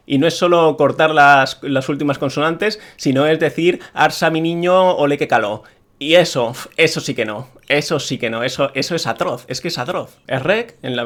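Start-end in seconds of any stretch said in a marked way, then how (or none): 4.0-5.6 lightly mocked Andalusian accent of Seville; parody Sevillian accent. Mocking dubbers who turn Andalusian into caricature, parody Sevillian accent. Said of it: "se convierte en particular en parodia".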